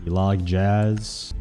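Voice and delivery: slow, lightly voiced Bee Movie line; Bee Movie quote. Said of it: "I remember the famous line".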